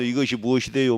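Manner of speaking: loud mock Chungcheong dialect line. Shown as a demonstration. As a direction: demonstrate a Chungcheong dialect phrasing. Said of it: "충청도 말로".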